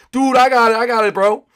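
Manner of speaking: loud, high put-on voice; rival player boast. Other player claims third place, high mock boast.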